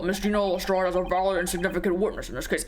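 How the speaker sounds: lightly voiced presiding official; formal court authority. Judge accepting the girl as a witness, formal. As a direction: pronounce a ruling to the courtroom.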